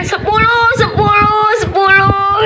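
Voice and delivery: high, repeated sing-out; calling for score. Retold or imitated. Aisar wanting ten from the crowd, high playful call. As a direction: call it out high, drawing out each one.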